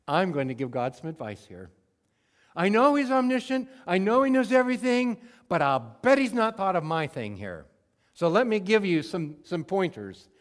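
loud, high, know-it-all advice to God; mock presumptuous prayer. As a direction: lecture God like you know better.

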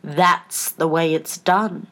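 slow, low, decided pronouncement; great decision. A narrator's reading. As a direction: state it firmly, word by word. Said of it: "the Queen said with great decision".

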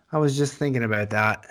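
low, soft attempt at a Scottish accent. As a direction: have a playful go at a Scottish accent. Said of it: "I'm getting better at that Scottish accent".

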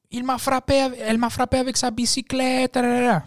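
high-pitched wailing complaint in French; mock screaming. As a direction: imitate a hysterical customer screaming. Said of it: "she's screaming now".

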